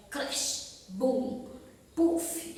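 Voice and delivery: demonstrated crash, boom and puff; imitated noises, the last one puffed out; comic-book sound effects. Shown as a demonstration. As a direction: say each onomatopoeia as a separate noise. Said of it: "elas vão estar representando os sons".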